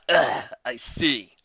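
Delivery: very slow unimpressed groan; dismissive. Acted. The griffin brushing off Pinkie's answer. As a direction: drag it out with disdain.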